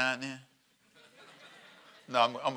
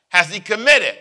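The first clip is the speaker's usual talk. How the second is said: Pilate's question; 3 semitones higher, 10 dB louder than usual. Retold or imitated.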